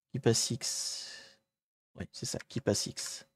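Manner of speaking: quiet whispered repeat. Real, not acted. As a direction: murmur the tool name under your breath. Repeats tool name to himself.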